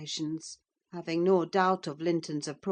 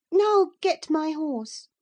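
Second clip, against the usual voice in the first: high, loud, slow order with NOW stressed; "Now get my horse" commanded like a little mistress, falling at the end; imperious girl; 12 semitones higher, 9 dB louder, slower than usual. A narrator's reading. Cathy orders her unknown cousin like a stable boy, haughty. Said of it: "she said".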